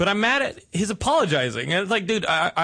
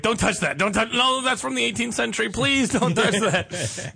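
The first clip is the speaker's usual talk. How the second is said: fussy curator; 5 semitones higher than usual. Retold or imitated. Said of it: "He's like".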